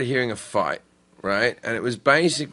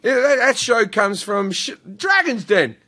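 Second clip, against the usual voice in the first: laying down the law; 9 semitones higher than usual. Retold or imitated. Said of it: "I said to him".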